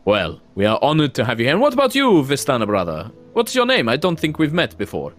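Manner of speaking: lightly voiced jovial Vistana; a hint of a hearty wine seller; jovial host.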